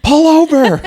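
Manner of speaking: high, laughing shout of the words; laughing mock yell. Retelling drivers yelling at his buddy, laughing mock yell. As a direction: yell it while cracking up. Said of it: "all these people were honking at us and yelling".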